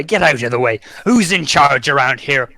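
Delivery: lightly voiced angry pirate captain; a hint of a demanding pirate, slowing on the question. Pirate captain pushing past a town guard, mildly angry. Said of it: "some angry captain pirate".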